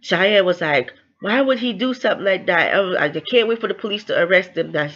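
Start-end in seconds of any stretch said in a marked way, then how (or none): 1.2-4.9 higher-pitched, indignant quote; mildly acted indignation; upset retelling. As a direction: voice someone upset and demanding answers. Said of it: "but she was upset".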